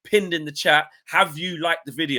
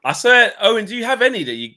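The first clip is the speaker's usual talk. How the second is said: higher, louder laughing question; 9 semitones higher, 7 dB louder than usual. Real, not acted. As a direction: talk through the laughter. Laughing while asking Owen.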